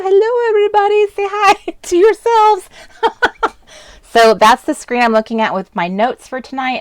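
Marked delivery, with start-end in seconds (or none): 0.0-3.6 high, excited hello to the viewers; excited, much higher hello to the camera; bright greeting. Real, not acted. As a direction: greet everyone with a big lift.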